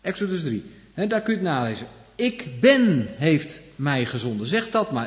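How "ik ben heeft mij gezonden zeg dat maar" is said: slow, louder solemn line; solemn divine quote. Acted. Preacher repeating God's answer, slow and solemn. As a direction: weigh each word like a proclamation.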